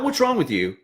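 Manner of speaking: the wrong way to address a struggling peer, accusing; exasperated jab. Shown as a demonstration.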